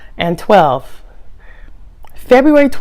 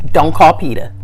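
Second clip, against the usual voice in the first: whispered plea; 3 semitones lower than usual. Real, not acted.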